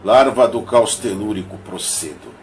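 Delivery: measured, declaimed verse with pauses between lines; poem recitation. Acted. Reading Augusto dos Anjos's monologue of a shadow to listeners, poem recitation. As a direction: recite it line by line, emphatic openings falling away.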